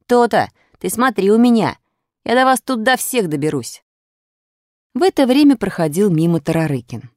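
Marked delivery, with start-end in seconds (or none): 0.1-3.8 high, puffed-up warning; swaggering schoolboy threat; boastful threat. A narrator's reading. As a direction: warn them like a cocky little bully.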